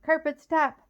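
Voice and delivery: high, loud cry to halt the carpet; desperate loud command; shout. A narrator's reading. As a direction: yell it out mid-fall. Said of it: "Sabrina managed to shout".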